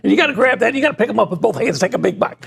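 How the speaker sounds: a light take on an eager football analyst; Jim Turner impression. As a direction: hype up the barbecue like a play breakdown. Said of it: "How would he do it?".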